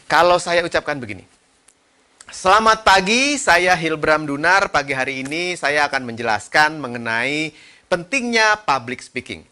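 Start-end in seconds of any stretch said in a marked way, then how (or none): 2.3-9.5 level, unvaried presenter delivery; datar. Shown as a demonstration. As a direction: keep the tune even, little play in intonation. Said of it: "saya ngomong datar tuh". (bicara datar, biasa saja)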